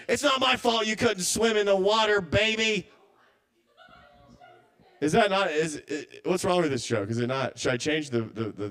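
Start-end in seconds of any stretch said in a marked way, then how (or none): 0.1-2.9 higher, defensive brush-off; dismissive woman to ghost baby. Retold or imitated. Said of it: "then she's like".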